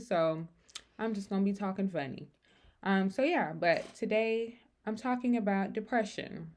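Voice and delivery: words a bit slurred around sore braces; talking with braces. Real, not acted. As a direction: talk like braces are biting your lip. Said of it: "excuse me if I'm talking funny".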